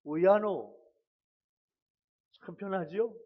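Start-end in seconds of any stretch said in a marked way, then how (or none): 0.0-0.8 three-syllable Gyeongsang lament; Gyeongsang dialect. Shown as a demonstration. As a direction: say it as a short Gyeongsang exclamation. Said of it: "세 글자".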